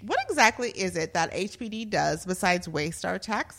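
dramatic reading of a complaint; actor's voice. Acted. Host reading police review to co-hosts, actor's voice. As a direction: perform the bad review like an indignant actor. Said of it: "I'm gonna be in my actor's voice".

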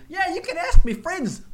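mock Australian. The vagrant pointing police to his friends, mock Australian. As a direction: play the bush vagrant in a cavalier Australian accent. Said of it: "We're doing these accents".

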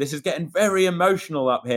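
high, giggly impression of a radio call; woman on the radio, laughing as she tells it; laughing while quoting. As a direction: quote her through laughter. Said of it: "She was on the radio".

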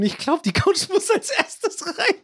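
high, slow, laughing through the words; nervous laugh breaking through; laughing dread. Real, not acted. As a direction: giggle out the awful realization. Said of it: "kam so mein mulmiges Gefühl".

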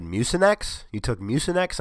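Mucinex? jumping up high in disbelief; surprised coworker. Retold or imitated. Coworker questioning his pronunciation, incredulous rising echo. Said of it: "and they said".

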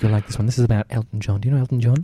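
lightly voiced old-lady caller; caller Maureen. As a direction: tell the joke as a chatty old caller.

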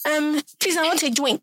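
high, childish mock baby voice; imitating a toddler asking for a drink; baby talk. Mocking how adults talk to kids.

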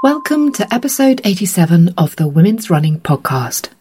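hoarse from a cold; rough, croaky voice from a cold; gravelly cold voice. Real, not acted. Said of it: "so I sound very gravelly".

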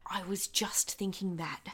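hushed conspiratorial whisper; whispering while eavesdropping on the men. Acted. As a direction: whisper so the men don't hear.

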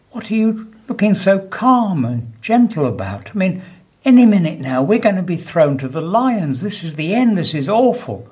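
high, agitated joke-character voice; alarmed. Acted. Doomed prisoner to his calm companion, acted alarm. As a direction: play mounting panic, pitched well up.

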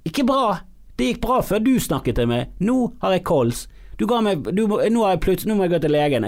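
high-pitched comic complaint; hammed-up distress, pitched well up; mock alarm. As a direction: protest in a high, aggrieved voice. Acted panicked reply to the smoker.

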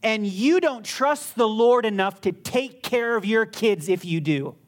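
firm, pointed retold rebuke. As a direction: retell a stern challenge to someone. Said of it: "in a firm tone".

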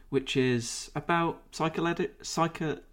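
slight lisp from a retainer; wearing a retainer. Real, not acted. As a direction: talk round a retainer with a lisp. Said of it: "I've got a little bit of a lisp on".

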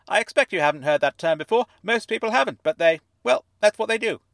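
high, fuzzy voice like it's underwater; fuzzy fish tank voice. A narrator's reading. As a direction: speak as if from inside a fish tank. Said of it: "as though he were speaking from the inside of a fish tank".

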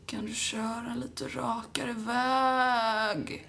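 put-on very slow, drawn-out queasy drunk plea; half shout it as if about to throw up; drunk half-yell. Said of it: "typ så halvt skriker, halvt spyr". (halvt skrikande, illamående fyllebön)

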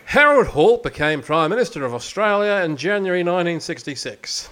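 lightly put-on Australian accent; a hint of an Australian accent. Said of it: "I'm gonna do it in an Australian accent".

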